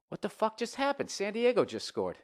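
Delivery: high-pitched, incredulous interruption; real shocked outburst. Real, not acted. Storyteller reacts to San Diego scoring mid-story, incredulous.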